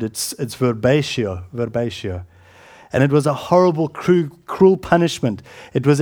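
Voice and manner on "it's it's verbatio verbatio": verbatio spelt out slowly and low; careful pronunciation. Shown as a demonstration. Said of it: "a different Greek word".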